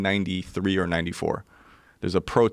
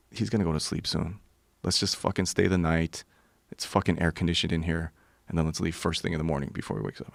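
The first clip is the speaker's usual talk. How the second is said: hushed plotting; 2 semitones lower, 5 dB quieter than usual. Retold or imitated. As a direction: keep it down so the host won't hear. Friend plotting in hushed tones.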